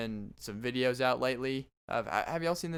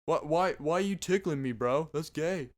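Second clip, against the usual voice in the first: a touch higher, scoffing bro; teasing friends; 4 semitones higher than usual. Retold or imitated. Friends scoff at being tickled, mildly higher. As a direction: scoff at him lightly.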